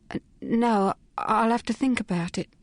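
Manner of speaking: mildly hesitant, unsure reply; faltering. Acted. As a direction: stumble a little over the refusal. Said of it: "faltered Phryne".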